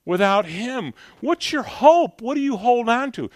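fervent, rising preacher's appeal; preaching. Acted. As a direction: preach it out to the congregation. Preaching to the congregation.

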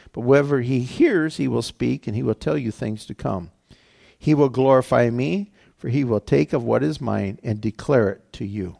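emphatic read-aloud with rising and falling phrases; scripture reading. Acted. Preacher reading Jesus' promise to the congregation, emphatic scripture reading. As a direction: read the verses out firmly, phrase by phrase.

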